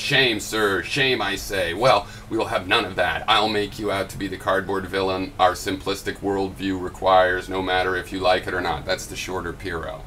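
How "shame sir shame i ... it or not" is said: hammed-up scolding in comic paraphrase; mock indignation. Vlogger parodies a commenter's version of his video, mock indignant. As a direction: declaim it like a mock-offended moraliser. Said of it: "this is a comedy paraphrase of my video".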